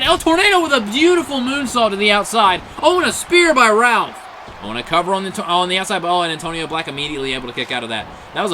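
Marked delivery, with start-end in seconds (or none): 0.0-4.2 thrilled. Real, not acted. Big moonsault, thrilled call.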